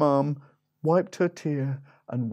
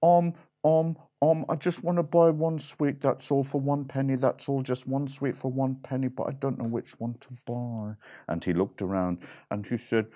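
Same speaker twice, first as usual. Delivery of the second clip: dithering piglet; 2 semitones higher, faster than usual. Acted. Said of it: "the pig said".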